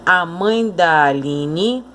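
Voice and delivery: slow, da swallowed into mãe; "mãe da" run together, "da" light and weak; weak unstressed da. Shown as a demonstration. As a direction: let "da" glide unstressed off "mãe". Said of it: "característica de pronúncia fraca".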